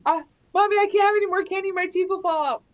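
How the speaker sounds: a hint of a small child pleading; imitating her son. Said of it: "my son will be like".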